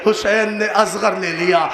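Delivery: chanted mourning narration that climbs steadily in pitch; a preacher's grieving chant that rises line by line; majlis recitation. Acted. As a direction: recite the lament, building toward a cry.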